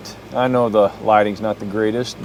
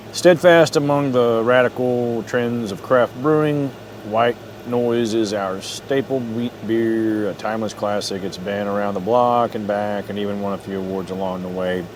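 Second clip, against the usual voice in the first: label read-out. Acted. Reads the beer blurb aloud.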